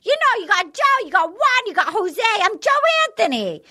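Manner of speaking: hammed-up incredulous retort; mock indignation. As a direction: playfully protest as if your name were insulted. Retelling Joe's mock indignant reply.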